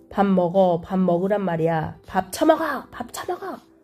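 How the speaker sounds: voice rising into anger. Role-playing a father telling his child to eat, voice rising into anger. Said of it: "목소리가 점점 높아지다가 분노에 걸린다".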